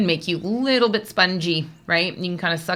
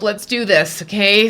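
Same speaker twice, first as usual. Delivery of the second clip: louder, lightly rallying push; pep talk; 6 dB louder than usual. Retold or imitated. Reader urging on the little dogs, rallying. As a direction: urge them into action. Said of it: "Sort of like, "Buck up".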